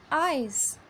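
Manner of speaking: "eyes" with a long open "ai"; long eye sound. Shown as a demonstration. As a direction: say "eyes" with the mouth opened wide. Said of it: "In I C E eyes".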